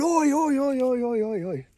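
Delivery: high, loud string of mock British shouts; British oi-ing. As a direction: imitate a gang of Brits piling in with ois. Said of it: "They oi a lot".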